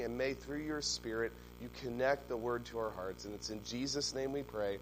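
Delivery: soft, quiet pastoral prayer. Acted. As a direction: pray gently over the congregation. Leads the opening prayer.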